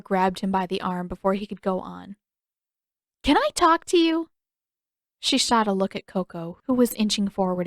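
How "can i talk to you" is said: firm demand. Acted. Katara pulling Aang aside.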